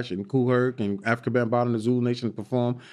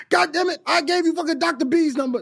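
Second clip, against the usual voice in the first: put-on angry old man; 14 semitones higher than usual. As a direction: bark it like a cranky old man. The speaker voices angry Dick Gregory.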